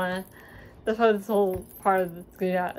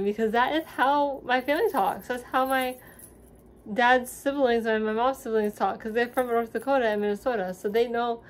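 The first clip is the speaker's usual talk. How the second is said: Minnesotan accent slipping out; 3 semitones higher than usual. Real, not acted. Talking about North Dakota family, Minnesotan accent creeping in. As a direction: let a touch of Minnesota creep in. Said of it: "God, I'm sounding so Minnesotan".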